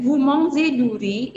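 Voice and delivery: "riz" lifted up at the end as a question; rising intonation. Shown as a demonstration. Teacher contrasts intonation questions for students, rising on "riz". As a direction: rise the pitch on the last word "riz". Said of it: "menaikkan intonasi di belakang".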